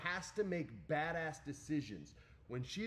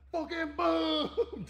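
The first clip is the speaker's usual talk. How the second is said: huge high, stretched-out boom; shouted slam effect; 12 dB louder, much slower than usual. Retold or imitated. Retelling a man smashed through a table, high drawn-out shout. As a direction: yell the boom as the body crashes down.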